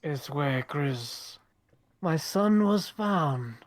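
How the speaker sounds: acted wistful recollection; reminiscing father. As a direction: recall it slowly, with pauses, in character. In character, reminiscing about his son.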